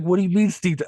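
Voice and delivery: mock her as the movie character does; imitated mocking. Retelling a character's comeback to the sister, lightly mocking. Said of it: "he's, like, just mocking her".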